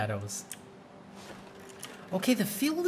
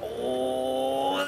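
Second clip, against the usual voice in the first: rising thrill, voice climbing high; psyched up for the big swing; excited; 11 semitones higher than usual. Real, not acted. Riding the swing in VR.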